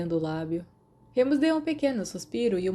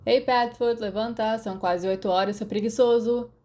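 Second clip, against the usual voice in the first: raised voice, calling across the room to a sleeper; teasing wake-up call, louder; calling out to wake him; 3 semitones higher, 4 dB louder than usual. Acted. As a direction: rouse a lazy friend from bed. Waking a sleeping friend.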